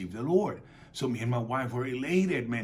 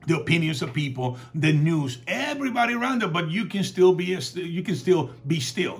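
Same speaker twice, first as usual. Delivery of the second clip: loud, raised-pitch sermon delivery; fervent preaching; 5 semitones higher, 6 dB louder than usual. Real, not acted. Preacher retells Jesus calming the storm for the congregation, fervent preaching. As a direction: preach it out with punched phrases.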